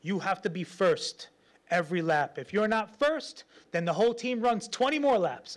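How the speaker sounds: hint of a demanding coach; preacher retelling his coach's rule. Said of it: "He goes".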